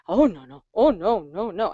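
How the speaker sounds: swooping, protesting "oh, no, no"; mock modest refusal. Mom deflecting praise for her solo, mock modesty. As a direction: wave off praise with exaggerated humility. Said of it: "just saying, oh, no".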